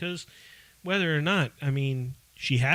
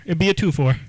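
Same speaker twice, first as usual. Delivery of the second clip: loud joking; 3 semitones higher, 6 dB louder than usual. Acted. Repeats pun louder.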